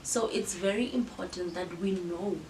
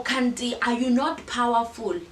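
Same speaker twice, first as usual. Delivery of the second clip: louder, brushing off her feelings; dismissive scolding; 4 semitones higher, 6 dB louder than usual. Retold or imitated. Someone loudly dismissing a friend's feelings, scolding. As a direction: scold as if feelings are silly.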